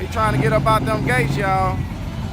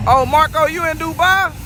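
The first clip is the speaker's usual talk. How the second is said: surprised higher-pitched question, rising through; 6 semitones higher than usual. Real, not acted. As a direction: greet a viewer with real surprise. Spots a known viewer in Dubai.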